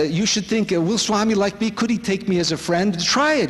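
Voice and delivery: lightly acted encouraging teacher; Swami's encouragement. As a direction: coax a doubter with a lifted pitch. Quotes Swami encouraging a doubter.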